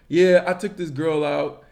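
lightly voiced dopey caveman bro; dumb caveman voice. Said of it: "I'm gonna put on the dumb caveman voice".

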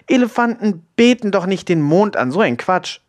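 high-pitched, incredulous objection; exclaimed disbelief. A narrator's reading. Friend disputes that elephants worship the moon, exclaiming. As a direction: scoff at an absurd claim. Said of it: "rief Sophia".

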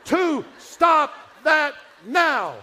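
slow, loud, high yelled threat from the front seat; imitated parent yell. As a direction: bellow it like an angry parent not turning round. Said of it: "never look back and do this".

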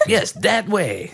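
slow, laughing mock French accent; fake French accent. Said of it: "they have, like, fake French accents".

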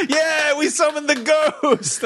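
very high, slow ghostly voice; spooky mock. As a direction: play the spooky roommates. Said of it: "We're like".

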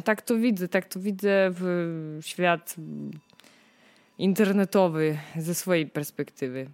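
usual speaking voice

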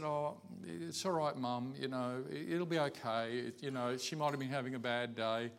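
soft, soothing retold comfort; quietly calm an upset parent; gentle reassurance. Son comforting his upset mother.

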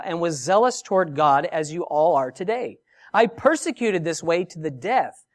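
measured Bible reading; scripture reading. Acted. Preacher reads Paul's defense to the congregation, measured reading. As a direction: read the passage aloud to the congregation. Reading Acts aloud in sermon.

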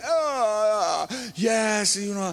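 put-on grand, smug answer; mock self-important. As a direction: play a preacher flattered by his own talk. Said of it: "I was getting a little bit ahead of myself".

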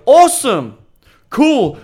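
high, loud, breezy cheer; mock cheery shout. Brushing off a woman's rejection with a loud cheer. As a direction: shrug it off with a big bright cheer.

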